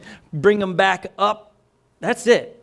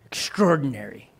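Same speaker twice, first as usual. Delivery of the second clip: breathy stage whisper, much softer and lower; 8 semitones lower, 5 dB quieter than usual. Acted. Preacher whispers the key word to the congregation. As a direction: whisper the word like a secret to the crowd.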